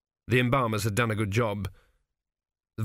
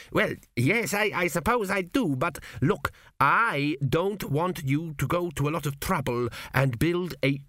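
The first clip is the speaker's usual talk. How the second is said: an anxious spirit hurrying to be heard; dead king's voice; 6 semitones higher than usual. A narrator's reading. Dead king urges his son, high and anxious.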